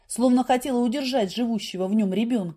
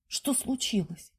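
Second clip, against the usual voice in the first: usual speaking voice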